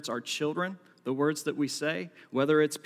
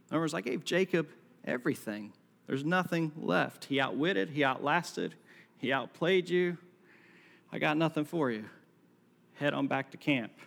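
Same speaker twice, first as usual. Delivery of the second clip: game show host brush-off. Pretend. Joke paraphrase as game show host.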